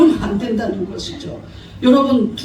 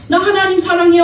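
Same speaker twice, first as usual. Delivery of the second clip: higher, louder, sing-song mock of a churchgoer's boast; mock pious claim; 5 semitones higher, 5 dB louder than usual. Preacher mocking a hypocritical believer, higher and louder. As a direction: parody the empty pious "사랑해요". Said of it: "하면서 말씀 전하는 거 싫어하고".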